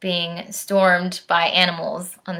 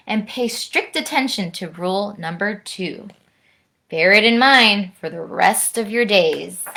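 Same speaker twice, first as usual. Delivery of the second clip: lively rhyming read-aloud; bouncy storyteller voice for a children's book; story narration; 3 dB louder than usual. A narrator's reading. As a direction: read it like a bedtime rhyme to kids. Reads the book's closing moral.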